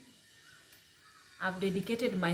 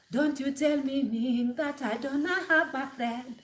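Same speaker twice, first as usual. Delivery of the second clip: imitating viral girl; 4 semitones higher than usual. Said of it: "that video of this girl".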